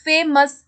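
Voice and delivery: फेमस as two beats, फे and मस; teacher showing two sounds in फेमस; split into syllables. Shown as a demonstration. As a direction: break फेमस with a short gap after फे. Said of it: "एक ही बार में हम नहीं बोल सकते".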